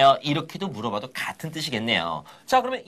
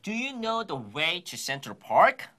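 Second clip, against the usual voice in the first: very slow, word by word; slow repeat-after-me line; slow model read; much slower than usual. Shown as a demonstration. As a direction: stretch it out for the class to copy. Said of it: "마지막 갑니다".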